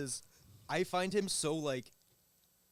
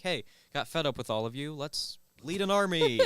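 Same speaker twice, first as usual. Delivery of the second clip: fed-up Kronos; 8 dB louder than usual. Retold or imitated. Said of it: "but he was like".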